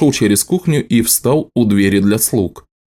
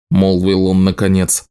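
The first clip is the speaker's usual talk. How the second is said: ordinary delivery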